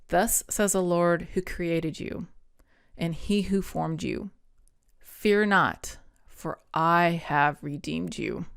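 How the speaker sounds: slow, soft, choked-up reading; a quiet scripture read on the edge of crying; fighting back tears. Real, not acted. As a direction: read it slowly and hold the tears in. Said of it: "let's see if I can get through it".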